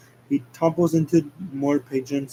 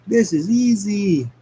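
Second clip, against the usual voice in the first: cocky Sonic; 6 semitones higher, slower than usual. Acted. Sonic voiced on the bull.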